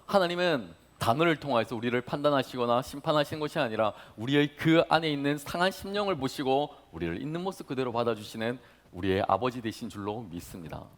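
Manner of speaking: normal talking voice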